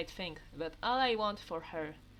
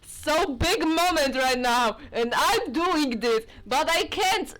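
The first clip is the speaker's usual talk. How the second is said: higher, louder, laughing through the apology; can't keep a straight face; giggly apology; 4 semitones higher, 9 dB louder than usual. Real, not acted. Player apologizing mid-scene, laughing and loud. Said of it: "Sorry, I'm so sorry".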